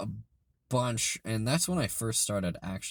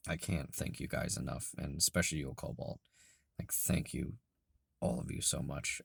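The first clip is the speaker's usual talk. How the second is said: soft, heartfelt, half-whispered; quietly grateful and moved; sincere thanks; 4 semitones lower, 6 dB quieter than usual. Real, not acted. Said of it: "pour my emotion into this".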